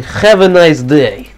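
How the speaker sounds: put-on slow, heavy Russian accent sign-off. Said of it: "That's my little F P S Russian ... impersonation".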